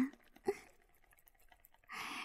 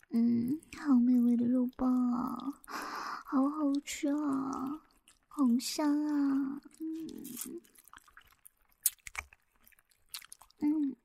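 talking round a lollipop; sucking a lollipop; slower than usual. Acted. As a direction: mouth full of candy, slow. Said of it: "我嘴里含着棒棒糖的声音". (含着棒棒糖说话)

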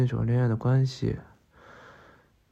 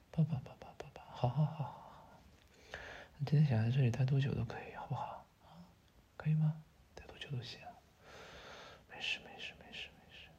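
soft, breathy reassurance in a hug; murmured comfort, barely voiced; soothing whisper; 9 dB quieter than usual. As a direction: hush them gently, fading to a whisper. Hugging and reassuring crying partner.

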